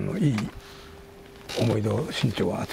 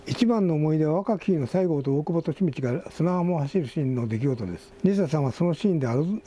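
higher, steadier reading voice than in chat; article read-aloud; 5 semitones higher than usual. Real, not acted. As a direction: read the tribute out to the listeners.

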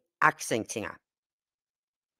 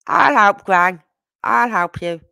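eager small granddaughter; 3 semitones higher, 5 dB louder, slower than usual. Retold or imitated. Granddaughter offering to help Gran tidy up, eager and loud. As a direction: pipe up keenly as a small child.

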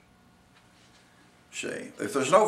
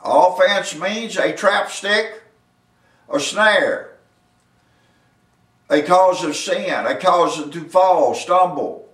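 raised, deliberate verse exposition; emphatic preaching; 4 semitones higher, 5 dB louder, slower than usual. Real, not acted. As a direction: hammer out each phrase with pauses between.

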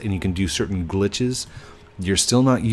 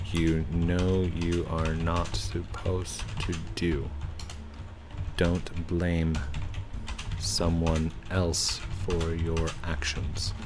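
stern scolding; 4 semitones lower, 7 dB quieter, slower than usual. Real, not acted. Scolding the cheater.

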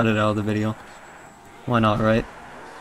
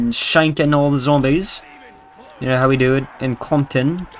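light, put-on British accent; a touch of British in the vowels. Real, not acted. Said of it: "I'm speaking with a British accent".

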